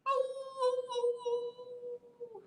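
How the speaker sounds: high sung bird cries; bird call. Acted. Reader voicing George the bird, high sung oh oh. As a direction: sing it like a flapping bird.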